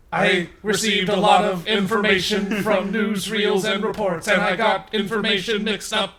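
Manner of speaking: robot apology. Acted. Glitched robot explains its mistake.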